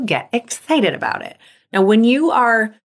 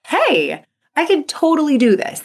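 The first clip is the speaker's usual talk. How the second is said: confident self-talk; 7 semitones higher than usual. Shown as a demonstration. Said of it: "you're like".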